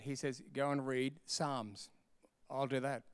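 hushed, low prayerful exchange; quiet surrender. Acted. Preacher models letting go with the Lord, quiet and surrendered. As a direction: hand it over softly, pitch well down. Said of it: "let go and be quiet".

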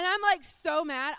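loud, slow, emphatic mock fury; retold anger. Wife after husband drives away, retold fuming. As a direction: stretch it out loudly, retelling how mad you were. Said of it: "fuming angry".

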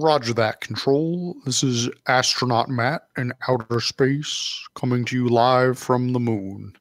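astronaut radio voice. Pretend. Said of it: "what if you were an astronaut in your spacesuit?".

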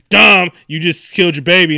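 mock accusing yell. Acted accusation from a movie scene.

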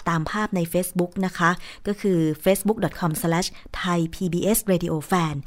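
spells the web address out slowly, word by word; slow and clear so listeners can write it down; slow dictation. Real, not acted. Host gives radio listeners the Facebook page address, slow clear dictation.

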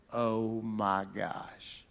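low, soft, slow gasp of shock; stunned hush. Acted. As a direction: barely breathe it out. Stunned brothers' inner reaction.

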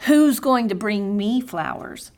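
mildly complaining, a touch of a whine; half-hearted sulky lament to God; fussing prayer. Retold or imitated. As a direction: retell the fussing prayer with mild self-pity. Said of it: "my pity party prayer, my lament, my fussing to God".

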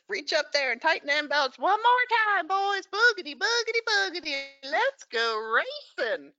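high, booming stretched-out race call; NASCAR race announcer. Retold or imitated. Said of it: "That's how they start all the races".

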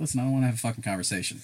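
fast, laughing mock outburst; mock snap. Retelling telling off the clerk, fast and laughing. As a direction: rattle it off fed up, half laughing.

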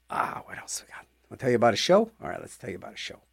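hushed stage whisper to the listeners. Acted. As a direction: lean in and whisper it like a secret. Host drops to a whisper.

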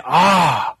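lightly mocking, drawn-out smug voice; a touch of smug mock approval; mocking wrong view. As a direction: play the naive reader, smug and slow. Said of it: "we don't wanna read this and say".

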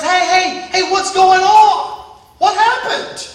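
hey, break it up, shout down the crowd; Moses shouting. Acted. Moses coming off the mountain yelling at the people, shouting.

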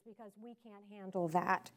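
hushed, falling away to very soft; mock helplessness. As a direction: shrink the voice in mock weakness. Mocking women's supposed helplessness.

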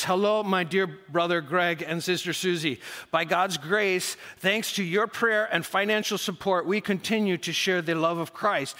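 put-on slight Russian accent reading aloud. Pastor reading a report from Yuri, light Russian accent. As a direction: read it with a hint of a Russian accent. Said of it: "I start talking in a Russian accent".

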